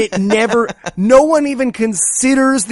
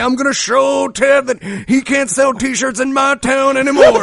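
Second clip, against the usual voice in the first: shouting; 6 semitones higher than usual. Acted. Mock villain declaration.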